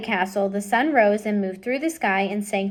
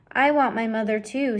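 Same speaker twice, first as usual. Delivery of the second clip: softly. Acted. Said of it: "said the princess softly".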